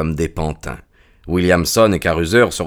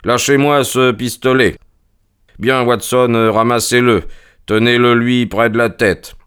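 voix de Holmes légèrement plus aiguë; Holmes autoritaire; 4 semitones higher than usual. Acted. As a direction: donner des ordres avec assurance, sans crier. Holmes donne ses ordres. (détective maître de la situation)

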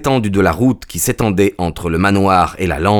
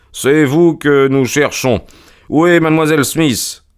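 brisk demand; 7 semitones higher than usual. A narrator's reading. Holmes questioning the stranger, brisk. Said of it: "avec sa vivacité ordinaire".

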